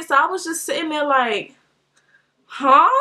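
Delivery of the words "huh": loud, baffled one-word reaction; dumbfounded. Retold or imitated. Rider sitting there as stranger talks, dumbfounded. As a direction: act out a stunned reply. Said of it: "I was really dumbfounded".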